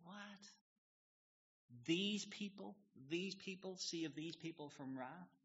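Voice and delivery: high, outraged "These people?"; indignant disbelief. Retold or imitated. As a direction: sound like the prophet can't believe the order. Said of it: "Jonah's kind of thinking".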